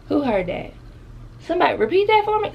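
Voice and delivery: shooting up high and fast in shock; can't believe what she just heard; sudden squeaky disbelief; stunned disbelief. Retold or imitated.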